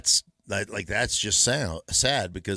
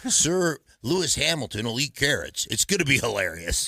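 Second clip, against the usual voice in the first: higher, louder mock eager pitch; mock Russ Wilson; 5 semitones higher, 4 dB louder than usual. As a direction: pitch the dumb idea like an overeager star. Imitating Russ pitching idea.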